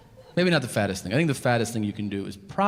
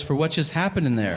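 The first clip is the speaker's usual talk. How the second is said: higher-pitched wife, mildly insistent; imitated concerned wife; 4 semitones higher than usual. Wife answers husband about the bathroom, mildly insistent. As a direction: lightly voice the wife pressing her point. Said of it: "She goes".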